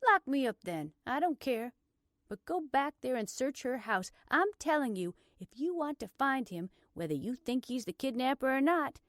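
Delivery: groan, then insist urgently. A narrator's reading. Blair urging the officer to search, groaning in exasperation. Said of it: "She groaned".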